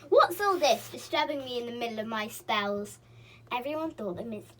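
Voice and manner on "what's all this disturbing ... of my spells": loud indignant boom. Acted. Pixie booming at the visitors who disturbed his spells. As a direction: boom out in outrage. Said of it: "boomed out loudly".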